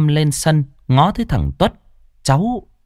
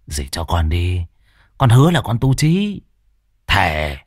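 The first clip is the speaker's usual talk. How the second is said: wheedling nephew; 5 semitones lower than usual. Acted. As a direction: sweet-talk the aunt for money. Nephew begging. (nài nỉ giọng trầm)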